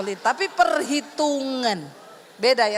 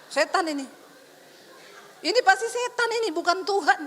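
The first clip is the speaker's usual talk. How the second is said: rebuking prayer. Retold or imitated. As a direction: rebuke the devil in Jesus' name. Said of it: "Langsung saya tengking".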